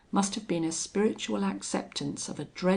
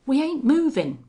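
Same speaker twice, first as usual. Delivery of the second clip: loud, higher sudden outburst; bursting out; 8 semitones higher, 8 dB louder than usual. A narrator's reading. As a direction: blurt it out in alarm. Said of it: "burst out Smith".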